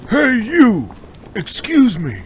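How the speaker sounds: loud, high call across the street. Acted. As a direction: shout to catch a stranger's attention. Student calls out on the street.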